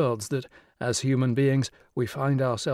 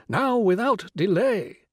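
small high urging inner voice; little exhorting voice; 8 semitones higher, 4 dB louder, slower than usual. Acted. Her inner little voice urging the Rani, small and insistent. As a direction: press gently but insistently, now now. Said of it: "her little voice kept exhorting".

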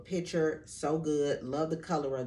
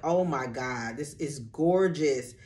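slower, louder, awed; gasping delight; 5 dB louder, slower than usual. Retold or imitated. Vlogger telling viewers how she opened the belt, slowly, in awe. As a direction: relive the gasp at first sight of the gift. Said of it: "ladies, I gasp".

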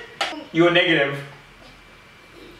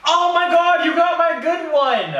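excited squeal; 12 semitones higher, 4 dB louder than usual. Real, not acted. Tasting game, gets the good one.

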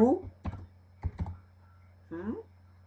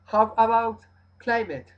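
asking question; 4 semitones higher, 6 dB louder than usual. Retold or imitated. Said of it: "uno le preguntan".

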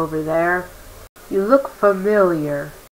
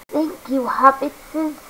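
higher hissy Gollum "Hobbitses"; 6 semitones higher, 4 dB quieter, slower than usual. Acted. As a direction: purr it like Gollum. Gollum's speech pattern.

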